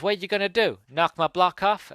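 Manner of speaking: high mock-tough taunt; imitating a jeering bully; taunting challenge. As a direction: goad a tiny opponent, drawing out the end. Biker taunts the little clown.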